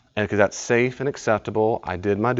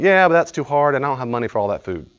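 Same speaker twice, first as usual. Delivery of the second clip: louder, higher whine then rushed; whiny excuse; 4 semitones higher, 4 dB louder than usual. Retold or imitated. Woman rejecting a diet, whiny then rushed. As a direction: dismiss the diet idea fast. Acting yes-but excuse.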